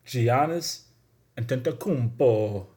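slightly put-on Spanish accent on the name. Shown as a demonstration. Host repeating a player's name for listeners, in a Spanish accent. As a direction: say it again with a Spanish flourish. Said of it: "I don't know why I'm putting, like, a Spanish accent on it".

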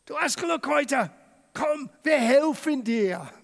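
mock sugary, high \"Uh\" and fawning; fake friendly. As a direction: overdo the sudden friendliness. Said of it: "jetzt sagen sie".

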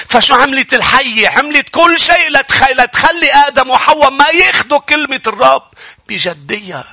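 insistent preacher retelling scripture; forceful preaching. Real, not acted. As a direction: drive the warning home. Preacher retells Eden warning.

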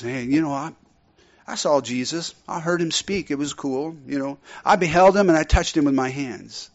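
mock-casual, underplayed testimony; offhand casual retelling. Shown as a demonstration. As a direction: tell it like it was nothing special. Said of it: "it's not going like this".

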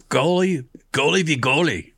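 put-on half-hearted Schwarzenegger accent on goalie v goalie; a light Schwarzenegger-style commentary accent. Announcing the goalie showdown in a light Schwarzenegger accent. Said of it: "I said that with an accent".

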